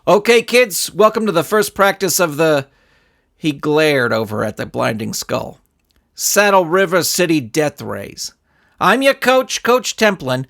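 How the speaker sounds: cheerful coach voice; lightly voiced coach talking to kids; coach addressing kids. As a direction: greet the team like a youth coach.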